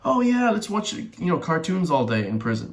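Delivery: high-pitched mock enthusiasm, dropping as it goes. Mocks prison as a creche.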